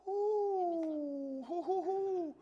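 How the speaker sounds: high hooting laugh; joyful whoop. Real, not acted. Preacher whooping with joy at the scripture. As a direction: let the joy burst out.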